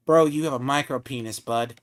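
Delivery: rapid second try of the taunt. Shown as a demonstration. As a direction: fire it off fast this time. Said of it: "Try again".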